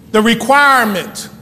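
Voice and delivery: "requirement" stressed firmly, falling at the end; deliberate, emphatic "requirement"; emphasis on requirement. Real, not acted. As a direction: land with weight on "requirement". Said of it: "emphasis on the word requirement".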